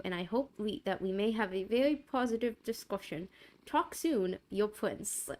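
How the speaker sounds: a light hint of a deep, suave prince. Streamer reads the prince's letter, lightly deep and suave. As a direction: read the letter like a polished royal. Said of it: "His voice is deep and suave".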